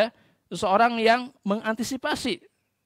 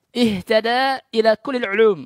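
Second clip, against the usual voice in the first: louder and slow, each word of the maxim weighed; slow emphatic recitation; 6 dB louder, slower than usual. Retold or imitated. Preacher repeating the maxim for attention, slow and loud. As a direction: lean on every word so students take it in.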